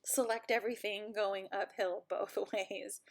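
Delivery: lightly voiced old lady; a hint of a grumbling old lady. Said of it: "here's where I get to sound like an old lady".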